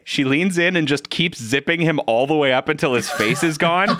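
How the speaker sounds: laughing while telling. Real, not acted. Laughing while retelling scene.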